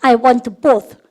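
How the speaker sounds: very slow, stretched for repeating; slow model reading. Shown as a demonstration. Teacher modelling the answer slowly for students. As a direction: spell it out slowly for the class. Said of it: "시작".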